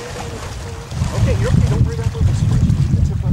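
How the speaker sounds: loud, high urgent coaching; urgent shout. Real, not acted. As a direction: call out instructions urgently. Calling urgent coaching at daughter.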